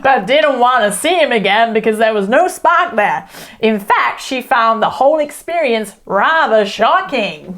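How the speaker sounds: put-on American, slightly hammed-up for a joke; lightly exaggerated American accent. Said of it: "American accent".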